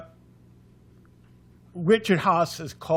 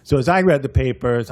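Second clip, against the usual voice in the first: same words restarted, now louder into the mic; closer to the mic; 6 dB louder than usual. Real, not acted. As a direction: lean in and say it again, fuller. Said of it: "Maybe closer".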